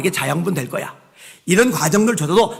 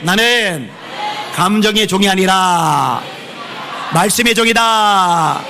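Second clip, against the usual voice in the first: forceful; slower than usual. Shown as a demonstration. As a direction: proclaim it with full force, 말씀의 drawn out. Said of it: "힘차게".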